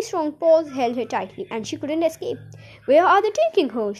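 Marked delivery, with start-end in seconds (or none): 2.9-3.9 high, louder motherly shriek; shrieked question. A narrator's reading. Mother watches daughter carried off, shrieking in alarm. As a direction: demand it in an acted, alarmed cry. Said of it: "shrieked Miss Salt".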